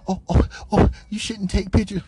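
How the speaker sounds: mock objection. Mocking coworker's objection, whiny voice. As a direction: mimic her fussy warning.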